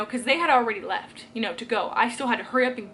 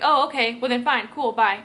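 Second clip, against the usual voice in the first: curt, louder mock-annoyed brush-off; 6 dB louder than usual. Relatives brushing them off before hanging up, curt and annoyed. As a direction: snap it off like hanging up in a huff. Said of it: "you could just tell that he was highly annoyed".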